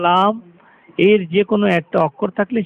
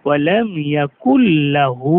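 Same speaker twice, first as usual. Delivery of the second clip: slow recitation; 3 semitones lower, slower than usual. Shown as a demonstration. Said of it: "recitation demo".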